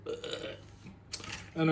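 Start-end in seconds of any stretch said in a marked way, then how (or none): 0.1-0.1 quiet mock-disgusted "ugh". Imagined vegetarian viewer reacting to anchovies, mock disgust. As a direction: groan a short ugh of disgust. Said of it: "you'll be going".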